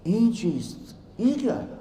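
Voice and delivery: rising in disbelief on क्या; a touch of stunned bewilderment; bewildered question. Acted. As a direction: scholar asks in bewildered disbelief, head in hands. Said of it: "सर पकड़ के बैठे".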